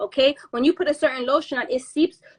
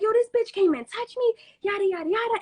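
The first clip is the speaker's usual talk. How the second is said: agitated retelling; 9 semitones higher than usual. Retold or imitated. Replays agitated phone rant.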